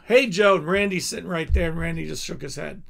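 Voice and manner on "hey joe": loud greeting back. Retold or imitated. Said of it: "And I go".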